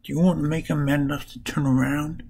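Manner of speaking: lightly acted scolding shout; mock shouting. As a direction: imitate shouting at bumbling allies, without full volume. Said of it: "Starts shouting at them".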